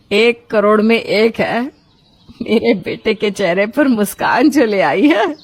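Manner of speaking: a hint of a relieved mother, warming up to her son; mother admitting she was wrong, gently at first, then brighter; lightly voiced mother. (बेटे से बात करती माँ, हल्की सी आवाज़ बदलकर)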